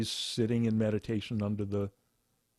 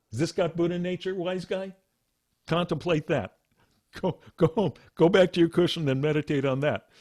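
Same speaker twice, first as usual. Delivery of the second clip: Joshu taunting the student; 5 semitones higher than usual. Retold or imitated. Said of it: "manifesting the dog and going".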